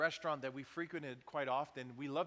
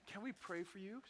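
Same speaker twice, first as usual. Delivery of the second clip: hushed, tender offer; gentle whisper; 3 semitones higher, 8 dB quieter than usual. Retold or imitated. Diner asks crying waitress to pray, whispered. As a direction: whisper it softly and kindly.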